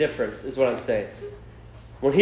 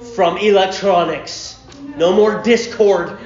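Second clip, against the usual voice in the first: stern father; 3 dB louder, slower than usual. Acted. Voices dad handing out punishment.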